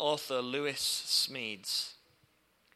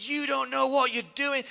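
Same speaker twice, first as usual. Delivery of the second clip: mock angry shout; 12 semitones higher, 11 dB louder than usual. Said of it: "And he's shouting at me".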